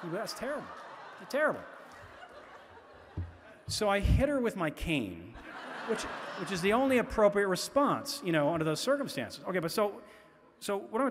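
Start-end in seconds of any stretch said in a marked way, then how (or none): 0.1-1.6 mock-appalled exclamation; mock outrage. Real, not acted. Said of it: "mock outrage at daughter". 3.7-9.4 chuckling through the joke; laughing joke. Real, not acted. Joking about hitting daughter.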